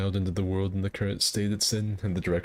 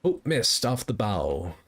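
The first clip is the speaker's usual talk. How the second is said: pirate voice; 2 semitones higher, slower than usual. Shown as a demonstration. Gamer showing off his pirate captain voice. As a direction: bark it like a ship's captain. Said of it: "my pirate voice".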